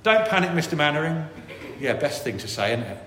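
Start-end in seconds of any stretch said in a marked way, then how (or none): 0.0-1.3 panicky Corporal Jones. Retold or imitated. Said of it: "And so I said".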